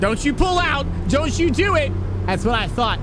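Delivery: can't believe he pulled out; excited disbelief. Real, not acted. Live reaction to truck pulling out.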